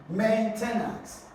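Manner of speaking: "maintenance" drawn out slowly, first syllable stressed; slow model "maintenance", weight up front. Shown as a demonstration. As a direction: slowly lean on MAIN in "maintenance". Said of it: "has its stress on the first syllable".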